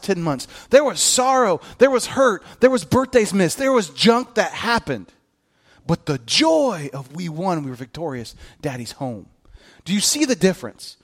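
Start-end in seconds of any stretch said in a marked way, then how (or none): 5.9-9.3 tender awe. Acted. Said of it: "preaching tenderly".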